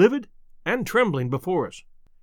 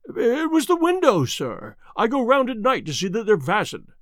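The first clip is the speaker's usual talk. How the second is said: nervous butler; 5 semitones higher than usual. Acted. Butler caught at the window.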